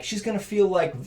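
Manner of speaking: high, loud, fast objection; spiraling worry about the wife; panicked protest. Retold or imitated. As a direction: argue back in alarm. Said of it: "instantly I'm like".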